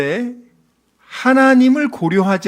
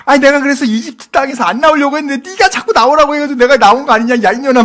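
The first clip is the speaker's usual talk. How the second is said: fast, high, loud quarrelling rant; acted marital-style row, loud and rushed; resentful blaming; 7 semitones higher, 5 dB louder, faster than usual. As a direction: rattle off an angry accusation without stopping. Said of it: "하고 원망해".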